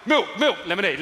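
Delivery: choreographer's high, loud cue calls; shouting it out. Acted. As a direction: shout dance cues from the wings. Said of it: "choreographer at the side of the stage shouting it out".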